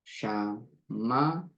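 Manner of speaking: 아주 느리게 한 음절씩 "샤마르트."; 최대한 늘여서 "샤마르트". Shown as a demonstration. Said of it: "하면". (아주 느린 반복 발음)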